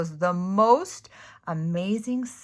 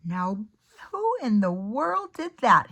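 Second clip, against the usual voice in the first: exclaimed; 3 semitones higher, 6 dB louder than usual. Acted. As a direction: call out like a watchman hearing a crash. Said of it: "he exclaimed".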